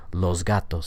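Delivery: "los gatos" run together with a voiced Z before G; assimilated S. Shown as a demonstration. Teacher pointing out the S in los, said as Z in "los gatos". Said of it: "the S sound is going to change to a Z".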